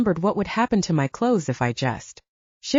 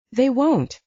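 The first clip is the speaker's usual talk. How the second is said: reassuring; 6 semitones higher than usual. A narrator's reading. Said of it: "the blonde reassured me".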